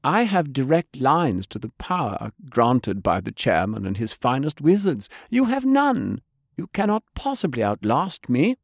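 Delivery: lightly voiced assassin, rising to a high boast; mock-superior villain taunt; gloating ninja. Toshiko boasting to Faye.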